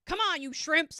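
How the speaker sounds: high, loud barked order to the troops; gruff admiral. Retold or imitated. Admiral yelling at his squad, loud high bark. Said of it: "Even though he was like".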